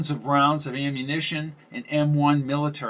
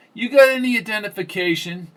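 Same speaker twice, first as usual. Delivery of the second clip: a sharp, higher demand for ID; 8 semitones higher, 4 dB louder than usual. A narrator's reading. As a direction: press her for papers, higher. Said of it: "she demanded".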